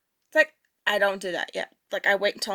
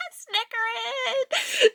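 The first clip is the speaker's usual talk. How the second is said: high giggling snicker; imitated snicker; 11 semitones higher, 3 dB quieter, much slower than usual. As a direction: snicker like an old lady. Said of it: "An old woman and her dog was like".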